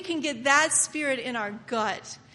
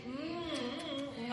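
eating noises; 14 dB quieter, much slower than usual. Shown as a demonstration. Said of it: "Big old bite, and then just".

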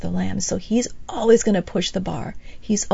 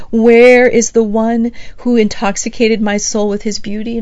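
longing cry; 7 dB louder than usual. Acted. Bride crying out in streets.

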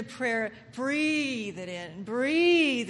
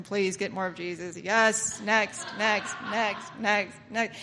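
routine processing; 4 semitones lower, much slower than usual. Acted. Acts out routine processing of worshippers.

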